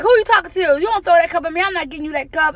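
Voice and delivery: imitating scolding. Retelling cussing out toddler.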